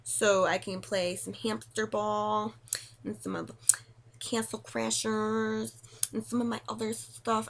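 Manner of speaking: slow, drawn-out odd voice; stretching the words out slowly; odd put-on voice. Real, not acted. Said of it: "I don't know why I'm talking like this".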